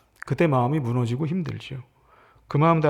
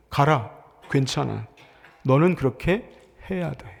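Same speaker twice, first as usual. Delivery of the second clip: gentle encouragement; 2 semitones lower than usual. Shown as a demonstration. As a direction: calmly reassure and send them on. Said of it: "이렇게 들립니다".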